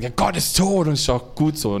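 triumphant, gloating 'Gott ist tot'. Retold or imitated. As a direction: crow it like a victory. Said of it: "wird er so triumphal erzählt".

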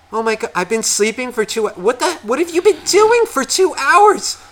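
high, shrill-pitched shocked question; shocked disbelief. Retold or imitated. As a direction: jolt awake and demand answers. Ex wakes, shocked at late hour.

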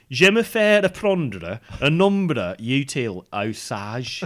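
French read in a Black Country accent; French words with a Black Country accent. Shown as a demonstration. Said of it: "black country accent".

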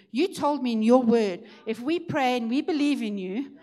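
acting out a firm, heartfelt challenge in prayer; bold faith. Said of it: "He stood in faith".

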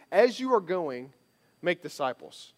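"make" hit hard, "As you are going" slow and light; slow lead-in, then punch "make"; weight falls on "make", not on "going"; stress on make. Shown as a demonstration. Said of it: "it kinda reads like this".

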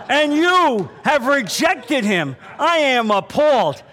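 high, loud, stretched-out scolding; hammed-up judicial outrage, hitting each key word; outraged judge. Judge rebuking the man who refused a handshake, outraged.

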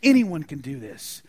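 loud, high outraged rant; hammed-up furious general; indignant Naaman. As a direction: play an offended, ranting Naaman. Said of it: "He's infuriated, it says".

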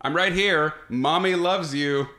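calm reassuring mom voice; soothing a child. Retold or imitated. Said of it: "she's remarkably calm".

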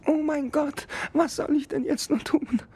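tiny high-pitched beetle calling out; small insect voice, called up the ship. Acted. Beetle despairs, hiding.

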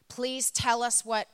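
slow, loud imitated plea; mock-plead with drawn-out words; retold begging. Police begging her friends for answers, retold pleading. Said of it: "Police officers are begging them".

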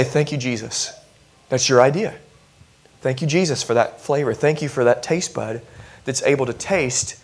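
soft murmured thanks to Jesus; hushed, grateful mock prayer over food; quiet thankful prayer. Preacher coaching a diner to pray, quiet thankful murmur. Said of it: "I want you to say".

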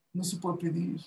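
quiet echo of the rule. Shown as a demonstration. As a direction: repeat it almost under the breath.

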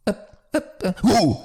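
high shouted calls after her; shouting after the townswoman as she walks off; calling out. Acted. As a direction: yell after her to get her attention. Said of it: "Krzyknął w jej kierunku".

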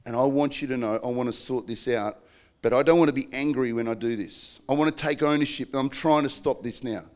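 tender reassurance. Shown as a demonstration. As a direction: reassure your spouse of your love. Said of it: "Can we talk about this again then".

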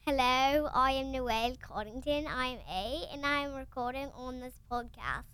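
lightly put-on British accent; a child's careful attempt at British. Shown as a demonstration. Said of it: "let's hear Noelle's British accent".

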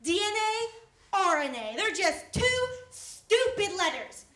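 insolent tone. Acted. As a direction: brush off the correction with attitude. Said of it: "Watch your tone".

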